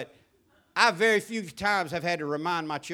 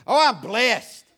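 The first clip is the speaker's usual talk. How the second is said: loud, high, sugary churchgoer reply; churchy answer; 4 semitones higher, 8 dB louder, slower than usual. Retold or imitated. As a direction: put on a pious cheerful front. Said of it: "we got the Christianese down".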